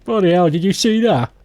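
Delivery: put-on Brit voice, incredulous; British accent. Replaying the stamping scene, British accent.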